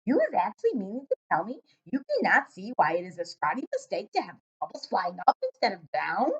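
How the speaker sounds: a hint of the giant, incredulous; lightly voiced giant. Giant astonished at the girl, lightly voiced. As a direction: let the giant sound amazed.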